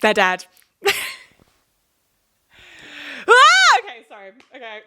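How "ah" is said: sudden very high loud yelp of frustration; a burst-out cry of exasperation; frustrated scream. Real, not acted. Vlogger overwhelmed by Brexit anger, frustrated scream. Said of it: "I'm getting very, very impassioned".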